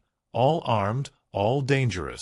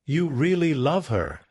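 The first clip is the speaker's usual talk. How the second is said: higher, surprised realization; 5 semitones higher than usual. Acted. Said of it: "he said, surprised".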